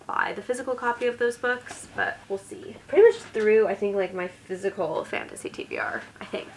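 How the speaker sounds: creaky vocal fry voice. Real, not acted. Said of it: "starting to really get into vocal fry here".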